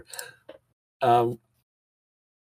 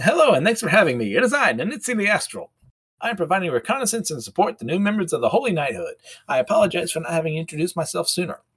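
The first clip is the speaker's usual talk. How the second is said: cheery astral being; 5 semitones higher than usual. Acted. The Nitsi appears, saying.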